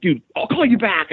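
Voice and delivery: high, hurried excited line; rushed hang-up. Retold or imitated. Ending the call with Brez, rushing. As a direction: cut Brez off to go. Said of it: "I'm like".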